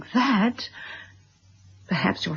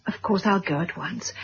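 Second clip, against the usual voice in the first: hushed whisper; 5 dB quieter than usual. Acted. Embarrassed apology after bereavement news.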